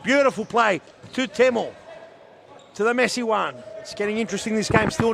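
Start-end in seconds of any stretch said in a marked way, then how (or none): 0.0-1.7 excited play-by-play. Real, not acted. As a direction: ride the attack with your voice. Play-by-play of attacking run.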